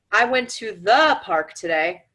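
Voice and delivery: slow, "the" pressed hard; stress on THE. Shown as a demonstration. Demonstrating emphasis to listeners, slow stress on "the". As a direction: lean on "the" only, slowly. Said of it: "depending on what you emphasize".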